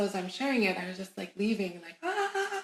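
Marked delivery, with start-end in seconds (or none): 2.0-2.6 high, drawn-out "ahh"; elated "ah". Retold or imitated. Leaving the client after sharing, elated "ah". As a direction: re-enact a high wordless swoon. How she felt leaving.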